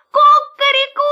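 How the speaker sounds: high, loud rooster crow. Acted. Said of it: "Петух захлопал крыльями и закричал".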